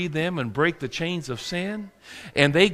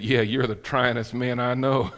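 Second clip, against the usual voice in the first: wife teasing; 5 semitones lower than usual. Retold or imitated. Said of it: "My wife said".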